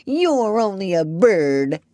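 slow, drawn-out sulky sob-voice; tearful whining. A narrator's reading. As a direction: complain as if about to cry. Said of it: "beginning to cry again".

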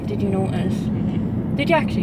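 slight lisp from aligners. Real, not acted. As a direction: talk with aligners in, lisping a little. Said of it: "lisping a bit".

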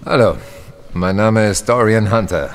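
calling out. Real, not acted. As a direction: call out to be heard at a distance. Calls out to a stranger.

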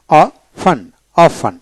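"অফেন" as o-fen, no T, said twice; model pronunciation. Shown as a demonstration. Teacher showing learners how to read it, "অফেন" without T. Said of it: "এভাবে পড়বেন".

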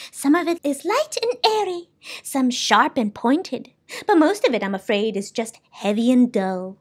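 lightly voiced character weighing each kind; soundkeeper, opinionated. Soundkeeper describes speech.

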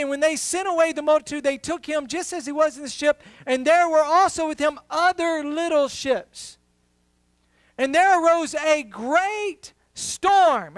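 building sermon read, slowing into the storm; preacher's scripture read. Acted. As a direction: read the verse with rising weight.

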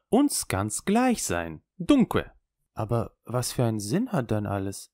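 lightly voiced wry old Italian showman; a worldly old juggler, amused and knowing; old trickster. Old trickster on God, chance.

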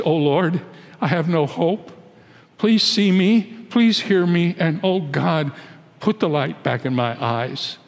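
a worn-out David praying in despair; pleading prayer. Acted. Preacher voices David's prayer.

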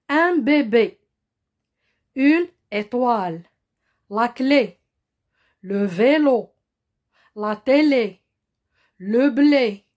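slow model reading, each é cut short; closed short é. Shown as a demonstration. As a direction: read the French examples slowly, with a closed, unstretched é in "bébé", "clé", "télé". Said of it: "ما كتطوالش بحال اللي غنشوفو في أكسون غراف".

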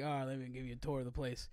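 offhand mock Cajun guide; Cajun tour guide. Mock Cajun guide rushes through a swamp tour, Cajun accent. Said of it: "this is how the tour is".

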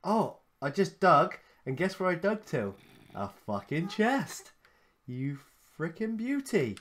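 excited. Real, not acted. Finds a chest, thrilled.

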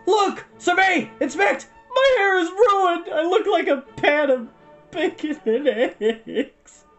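high, loud, drawn-out lament; wailing shriek. A narrator's reading. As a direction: wail each word as if ruined. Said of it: "Hal shrieked".

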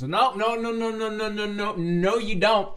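high, loud string of refusals; emphatic objection. Real, not acted. Objecting to a character losing weight, emphatic refusal. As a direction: break in loudly to forbid it. Cuts in on wish to lose weight.

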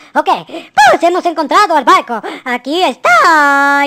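loud announcement, last word stretched long; excited reveal with a drawn-out ending. Real, not acted. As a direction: announce the big find to viewers. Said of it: "discúlpenme si me emociono".

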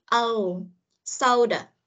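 O gliding to u, then soda; diphthong demo. Shown as a demonstration. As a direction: model soda with an ou glide in the first syllable. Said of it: "O sang U".

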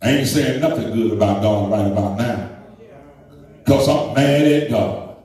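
playful defiance aimed at God; sassy, teasing refusal; mock defiant rant. Preacher to congregation, playfully defiant.

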